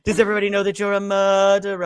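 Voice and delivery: imitating an over-dramatic woman, pitched high. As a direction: play it as a hammed-up dramatic accuser. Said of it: "she's so dramatic. Her voice".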